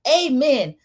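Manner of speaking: prayerful amen. Retold or imitated. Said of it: "ends it like a prayer".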